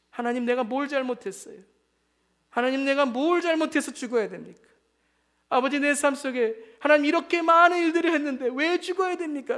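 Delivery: aggrieved appeal, building in force; protesting plea. Acted. Sinner asking God why they must die, protesting.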